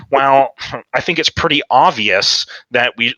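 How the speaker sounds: slow, mildly condescending imitation; mock a know-it-all teammate. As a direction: imitate someone being snidely patronizing. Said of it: "his little condescending bitch voice".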